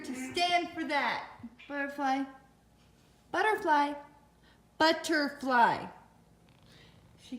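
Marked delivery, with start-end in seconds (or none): 1.7-5.9 calling out. Real, not acted. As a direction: call of the cat's name growing louder. Calling the jealous cat over.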